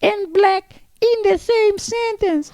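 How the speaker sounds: high, loud, slow mock tirade of an outraged woman; hammed-up furious lady shouting down the comic; imitating an angry woman. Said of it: "this black lady on the ground, she goes".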